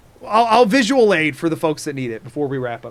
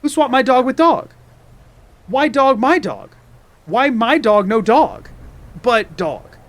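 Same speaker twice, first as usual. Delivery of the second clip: mock bewilderment; 7 semitones higher than usual. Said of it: "I would go".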